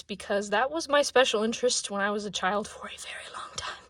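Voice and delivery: breathless, rushed words; out of breath. Real, not acted. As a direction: talk while out of breath. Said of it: "I'm so out of breath".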